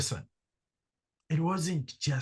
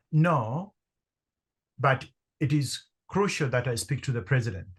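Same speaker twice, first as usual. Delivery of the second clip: confident. Retold or imitated. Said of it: "as confidently as I could".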